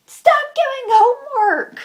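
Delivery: high, loud, exasperated yell; angry shout. Real, not acted. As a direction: yell it as a furious demand. Angry plea to teachers.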